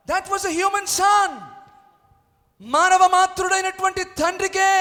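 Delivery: high, loud preaching over music; full-force preaching. Acted. Pastor preaching to the church about a human father. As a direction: build the argument boldly.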